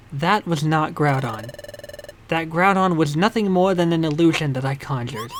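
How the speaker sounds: low guardian voice. Acted. Guardian character voice revealing.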